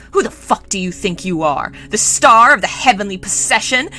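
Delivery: loud, high spoiled prince in a fury; raging tirade. Acted. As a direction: rant indignantly, building to a yell. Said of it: "still rampant and raging".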